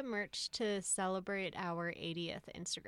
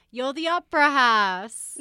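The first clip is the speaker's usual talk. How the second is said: loud, slow, sing-song playful mother; playful mom voice; 5 semitones higher, 17 dB louder, slower than usual. Retold or imitated. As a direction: coo it like a mum bathing her child. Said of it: "she's like".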